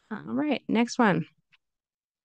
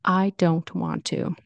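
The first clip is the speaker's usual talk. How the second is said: aggressive; slower than usual. Shown as a demonstration. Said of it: "can sound mean".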